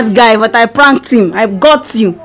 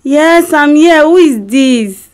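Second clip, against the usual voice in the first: amnesiac confusion. Pretend. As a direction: play dumb, totally confused. Wife fakes amnesia prank call.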